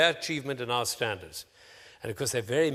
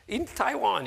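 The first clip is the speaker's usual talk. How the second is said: lightly imitated Taiwanese accent; a hint of a Taiwanese student's accent; 8 semitones higher, slower than usual. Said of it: "my attempt at his accent".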